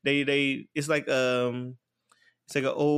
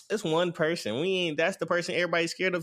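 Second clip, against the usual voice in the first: higher, lightly acted scoffing; mock dismissive; 5 semitones higher than usual. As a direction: retell the monsters' cocky disbelief, pitched up. Cocky monsters dismiss their foe.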